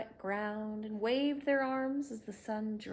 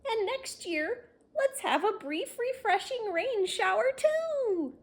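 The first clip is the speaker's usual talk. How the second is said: happy; 13 semitones higher, 8 dB louder than usual. Acted. Marilyn's joyful speech continues.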